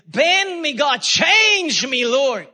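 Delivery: high, impassioned plea to God; crying out. Acted. Showing how people pray in God's presence, crying out. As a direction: cry it out high, stretching the key words. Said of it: "you start crying out like that".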